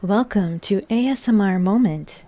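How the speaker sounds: flat, even robot voice. Pretend. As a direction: speak like an anxious butler robot. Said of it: "Oh, Robo voice".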